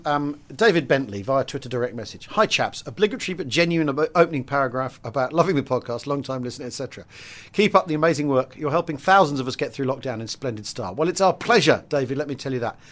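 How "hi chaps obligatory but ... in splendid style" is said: reading aloud. Acted. Reads out a listener's message.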